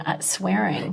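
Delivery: hushed, dropped to a whisper; whispered swear word. Real, not acted. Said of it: "I had to whisper that swear".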